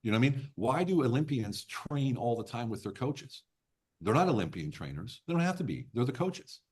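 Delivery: worked-up real enthusiasm; excited rant. Real, not acted. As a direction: rant passionately, voice pushed up. Heated rant about coaches.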